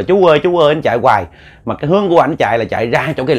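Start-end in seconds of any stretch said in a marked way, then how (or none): 0.0-0.7 raised call after someone. Retold or imitated. Villagers watch the brother calling after the man, raised call. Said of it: "anh kêu là".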